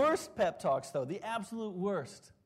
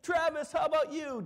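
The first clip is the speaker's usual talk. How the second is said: hyped manager; 9 semitones higher than usual. Retold or imitated. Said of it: "psych us up".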